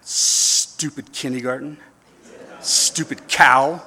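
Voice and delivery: slow sulky grumble, hammed up; mock grumble. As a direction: grumble like a sulking kid. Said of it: "you're so angry and mad".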